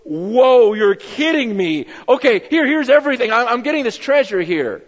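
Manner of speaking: amazed finder. Retold or imitated. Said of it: "a person who goes".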